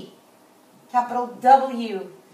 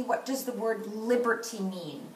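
softer repeat with weight on "liberty"; stress on liberty; 6 dB quieter than usual. Shown as a demonstration. Teacher showing the class how she read it, stress on "liberty". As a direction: lean on the word "liberty" in the question. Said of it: "I stressed the word liberty".

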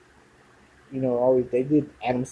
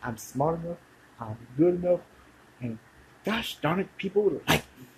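higher, gentle affirmation voice; Stuart Smalley impression; 5 semitones higher than usual. Retrying Stuart Smalley's mantra for viewers, higher and sweet. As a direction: recite it like a mirror pep-talk, pitched up. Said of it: "used to do Stuart, Stuart Smalley".

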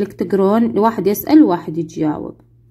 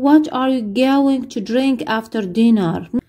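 each English word spelled out slowly for the class; very slow model reading; much slower than usual. Shown as a demonstration. Teacher playing flight attendant, very slow model question. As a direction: read it slowly so pupils can repeat. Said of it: "سؤال ثاني".

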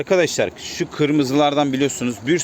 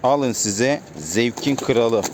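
drawn-out catchphrase; 3 semitones lower, much slower than usual. Acted. Vlogger's catchphrase as birds released.

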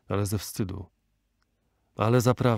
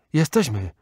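loud answering cry; mother's raised-voice reply; calling out; 3 semitones higher, 5 dB louder than usual. A narrator's reading. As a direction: call back to the rescuer. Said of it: "zawołała matka".

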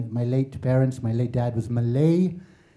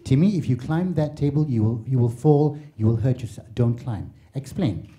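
patient European parent. Retold or imitated. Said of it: "They explain".

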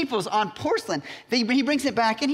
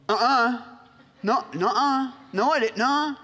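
put-on higher-pitched kid caught in trouble; eight-year-old's denial; 4 semitones higher than usual. Peter answering the accusing girl, like a guilty eight-year-old. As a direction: play a child denying everything. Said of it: "what all eight-year-olds say when they get in trouble".

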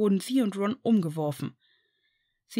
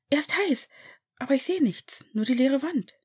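Hermine's voice; 6 semitones higher than usual. A narrator's reading.

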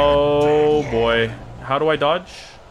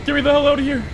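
panicked yelling; 11 semitones higher than usual. Real, not acted. Player trapped in the game, panicked high yelling. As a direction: shout to be let out, high and desperate.

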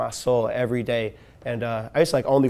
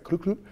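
higher little popping noise; imitated neck pop; 6 semitones higher, 3 dB quieter than usual. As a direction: mimic a joint going pop twice.

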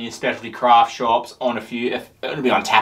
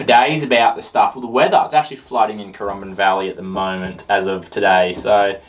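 glass at lips; words between sips; talking while sipping; 5 semitones lower than usual. Real, not acted. Seen 0: Glass held at mouth, sipping, through all labelled frames.

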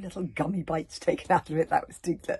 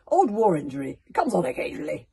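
excuse; 9 dB louder than usual. Acted. Nobber's excuse continues.

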